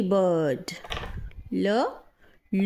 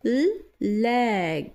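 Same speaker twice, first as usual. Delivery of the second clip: breathy whispered ल sound; whispered letter sound. Shown as a demonstration. Teacher to learners, whispering the letter sound. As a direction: whisper just the ल sound for the kids. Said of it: "teacher shows letter sound".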